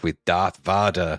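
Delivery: "Vader" said as "Vah-der"; soft-a Vader. Retold or imitated. Telling co-host of the TV airing, soft-a Vader. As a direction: rhyme the first syllable of "Vader" with "Darth". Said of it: "pronounce it with a soft A".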